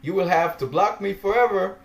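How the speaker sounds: laughing while mocking the blocked admin; laughing taunt. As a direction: giggle through the gloating. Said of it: "And I'm laughing".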